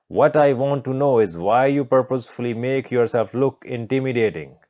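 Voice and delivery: hint of an indignant schoolteacher mid-lecture; lecturing teacher. New teacher lecturing a student on his hair, lightly indignant.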